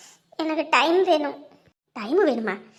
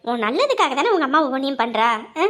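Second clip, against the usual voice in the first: coaxing elder; 4 semitones lower than usual. Acted. Elder coaxing the girl to accept marriage, low and soothing. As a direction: gently lecture the girl with proverbs.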